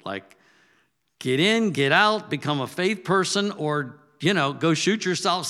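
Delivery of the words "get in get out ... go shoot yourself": higher and louder, exasperated; wife's angry rant. Retold or imitated. Retelling his wife's angry ultimatum, louder and higher. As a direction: fire it off like a fed-up wife. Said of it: "Phyllis was ready to kick me to the curb".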